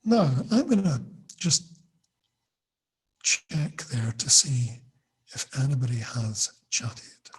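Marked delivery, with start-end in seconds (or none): 3.2-7.3 slow whisper under the breath; whispered aside. Real, not acted. Teacher checks the chat, slow whispered aside. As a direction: whisper it slowly to yourself. Checking for chats mid-lesson.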